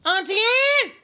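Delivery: high, loud call across the room. Acted. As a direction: shout the name out long. Calling out Auntie Ann.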